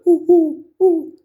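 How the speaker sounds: high hooting owl call. Retold or imitated. Explaining owl sounds, imitates a high owl hoot. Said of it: "the noise that we, we used to hearing from owls".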